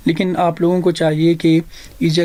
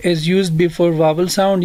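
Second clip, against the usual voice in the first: very slow, each word spaced out for students; slow dictation of a rule; much slower than usual. Shown as a demonstration. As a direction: spell out the rule slowly so they can write it. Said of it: "اور N جو ہے".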